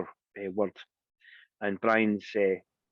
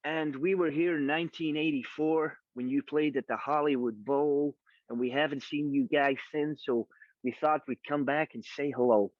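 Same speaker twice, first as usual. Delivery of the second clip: gently mimicked LA dude greeting; laid-back LA talk; 4 semitones higher than usual. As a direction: loosely imitate a friendly LA fan. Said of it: "in his finest L A talk".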